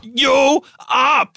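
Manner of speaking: loud, high hammed-up Austrian shout; Arnold Schwarzenegger. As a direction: shout it like a parody muscleman. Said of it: "the Arnold Schwarzenegger comes in".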